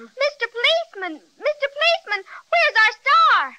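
put-on girl calling to the policeman for the stolen star; urgent calling. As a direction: call him and demand the star. Calling, then demanding the star.

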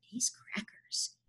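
slow, hushed whisper. Acted. Alan confiding about crazy Billy, slow whisper. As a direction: whisper it secretly to a friend. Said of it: "Alan whispered".

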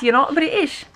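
light imitation of a British accent. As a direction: quote it in a put-on British voice. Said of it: "asked him in a British voice".

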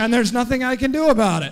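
high, full-voiced shout to the back; loud shout. Shown as a demonstration. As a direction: shout it out as a group leader. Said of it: "see if we can make them hear you".

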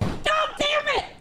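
frustrated outburst. Real, not acted. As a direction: blurt it out in frustration.

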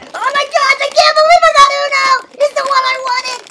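high, shouted disbelief and joy; ecstatic. Real, not acted. Kid pulling out the wished-for toy, ecstatic. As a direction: squeal like you got your wish.

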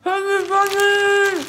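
talking through a mouthful of marshmallows; cheeks stuffed full. Real, not acted. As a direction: mouth crammed with marshmallows, slow.

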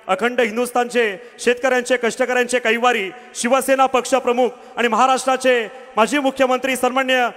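building to a huge slogan shout; fiery rally speech. Real, not acted. Announcer leads crowd slogan.

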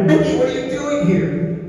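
high-pitched astonished greeting; retold surprise. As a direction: act out bumping into someone unexpected. Retold surprise at meeting Mickey.

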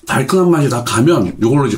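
chewing while talking; speaking between bites; mouth full. Real, not acted. Seen 0: Food put in mouth at -4; jaw still chewing during early words.

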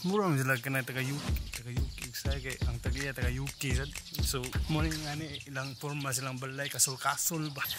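ordinary talk

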